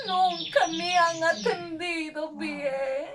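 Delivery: tearful, sobbing words between breaths; crying. Acted. Abandoned dog Emma crying to her friend Cali, tearful. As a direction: cry it out like a dog thrown out of home. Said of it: "¿Por qué estás llorando?".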